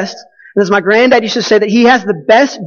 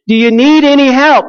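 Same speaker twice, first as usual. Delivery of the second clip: mock yell, pitched higher; retold yell; 5 semitones higher than usual. Man in nearby boat offers help, mild mock yell. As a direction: imitate someone calling across the water, higher. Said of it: "The man yells again".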